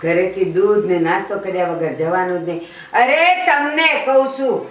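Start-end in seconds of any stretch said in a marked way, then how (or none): 2.9-4.7 yelling at husband. Acted. Mother yells at husband for milk.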